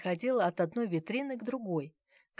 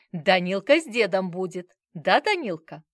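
cooing grandfather; 9 dB louder than usual. Acted.

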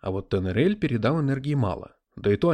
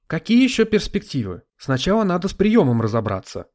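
higher, louder sharp retort; cooling his enthusiasm; 7 semitones higher, 6 dB louder than usual. Acted. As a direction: cut his excitement short. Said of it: "охладила его пыл Мирта".

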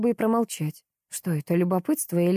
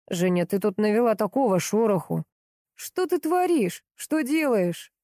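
angry man on phone; 2 semitones higher than usual. Acted.

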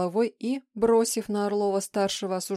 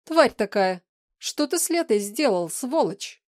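loud, higher furious accusation; furious yelling; 4 semitones higher, 6 dB louder than usual. Acted. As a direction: scream the insult at him. Shadow rages at Vlad.

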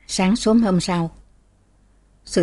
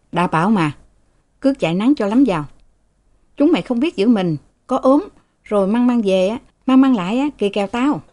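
grumbling scold; 3 semitones higher, faster than usual. Acted. Father grumbles at children.

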